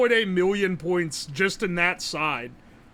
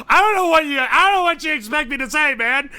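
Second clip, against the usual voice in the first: laughing helplessly while talking, pitched up; 7 semitones higher, 6 dB louder than usual. Real, not acted. Streamer tasting exhaust-smoked meat, laughing high. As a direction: gasp out the words mid-laugh.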